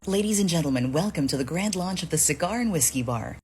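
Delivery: polished event announcer demo; announcer sample. Shown as a demonstration. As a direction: announce it like a grand opening. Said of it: "so I did a short sample".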